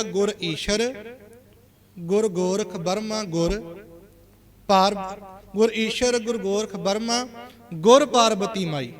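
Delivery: slow ਗੁਰ ਈਸ਼ਰ with ਗੁਰ joined to each name; each ਗੁਰ stressed before ਈਸ਼ਰ, ਗੋਰਖ, ਪਾਰਬਤੀ ਮਾਈ; correct reading. Shown as a demonstration. Teacher giving the true reading of the verse, slow and deliberate. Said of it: "ਇਹਦਾ ਉਚਾਰਨ ਹੋਏਗਾ".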